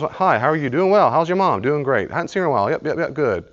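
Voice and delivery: mock cheerful greeting exchange; breezy small talk. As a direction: rattle off the polite ritual. Acting out a greeting ritual.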